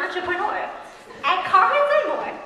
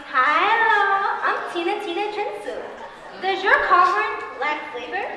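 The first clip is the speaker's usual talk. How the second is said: upbeat commercial pitch; cheesy infomercial host voice; ad read. Acted. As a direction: sell it like a local TV ad. Ad pitch to camera.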